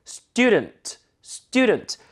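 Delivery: student as "STU-dnt"; weakened second vowel. Shown as a demonstration. Teacher modelling for repetition, student with reduced ending. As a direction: stress the start of student, swallow the last vowel. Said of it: "student가 아니라".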